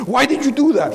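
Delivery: high, loud frightened pleading; scared scammer. Retold or imitated. Scared scammer calling back the preacher, high frightened voice. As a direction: squeal it like a panicked crook. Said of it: "He was scared".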